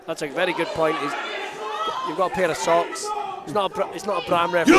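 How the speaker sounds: quiet. Real, not acted. Commentator muttering quietly.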